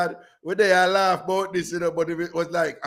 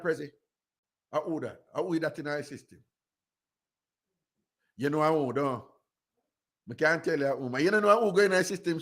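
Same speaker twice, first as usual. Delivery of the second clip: ordinary talk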